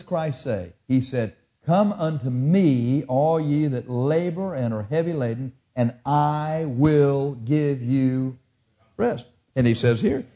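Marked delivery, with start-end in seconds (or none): 1.6-9.3 slow, spaced-out preacher's quote; solemn scripture quotation. Retold or imitated. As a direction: stretch each phrase and pause before the last word. Solemnly quoting Jesus's words.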